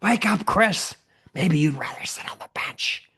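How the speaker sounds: high, strained baseball-dad shout; blowhard father. Acted. Blowhard father to his son at baseball, hollering. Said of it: "he was such a blowhard".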